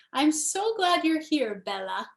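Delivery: Nona's heavy accent, lightly voiced; a hint of grandma's heavy accent. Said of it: "said Nona in her heavy accent".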